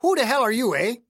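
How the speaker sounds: put-on high-pitched, indignant old hick with an accent; testy accented old-timer; irritated old man. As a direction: rebuke the interrupter, pitched well up. Voices irritated caretaker Clayton.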